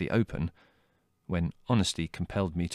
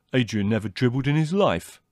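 louder, higher, mildly angry brother; combative retort; 5 semitones higher, 5 dB louder than usual. A narrator's reading. Leslie contradicting his sister about Adrian, combative. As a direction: defend your friend hotly.

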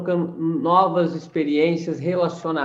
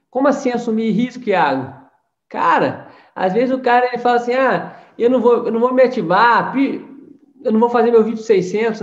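loud, higher, pushing rebuke; heated rebuke; 4 semitones higher, 6 dB louder than usual. Acted. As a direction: shake up the lazy listener. Heated rebuke of passive members. (cobrando a equipe em tom alto e indignado)

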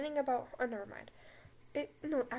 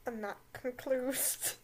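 slow, lightly voiced stern teacher; Snape voice; slower than usual. Reading fanfic aloud as Snape, a slow hint of sneer. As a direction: drag out "concludes" like a haughty professor. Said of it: "I'm gonna do a Snape voice".

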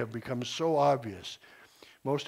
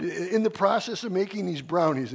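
retelling Mike; 5 semitones higher, 4 dB louder than usual. Retold or imitated. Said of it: "he said".

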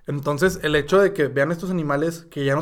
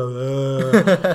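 zombie groan; 3 semitones lower, 4 dB louder than usual. Retold or imitated. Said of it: "Así como un zombie que está".

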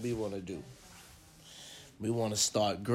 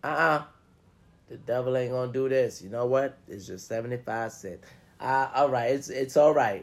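gracious forgiver; faster than usual. Retold or imitated. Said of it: "You say".

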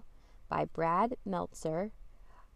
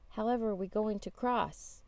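urgent monkey; 4 semitones higher than usual. Acted. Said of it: "says the monkey".

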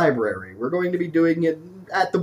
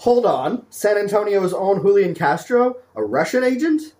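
high incredulous gasp of disbelief; mock shocked disbelief; 5 semitones higher than usual. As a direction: act scandalized, pitch shooting up. Mock outrage, pitch jumps.

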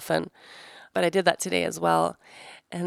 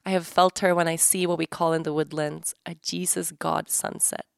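calm, measured book reading; reading aloud. Acted. Host reading a treasured book passage to listeners, calm and measured. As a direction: read the passage like it matters.

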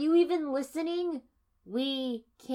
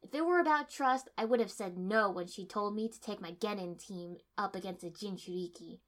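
heated argument; 2 semitones higher, 12 dB louder than usual. A narrator's reading. Kiba arguing with Sai, loud and heated. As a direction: hammer each point home.

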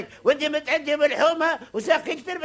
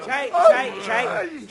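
shrieking; 10 semitones higher, slower than usual. Acted. Shrieking in the brawl.

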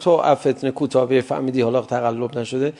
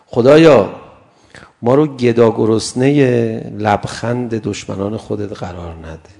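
fervent prayer cry; 3 semitones lower, 6 dB louder than usual. Real, not acted. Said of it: "دعا کنم برای خودمون".

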